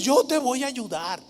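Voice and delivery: flattering promise. Retold or imitated. Preacher imitating Absalom's sweet promise of help. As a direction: coax sweetly. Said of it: "con ese tono así lisonjero".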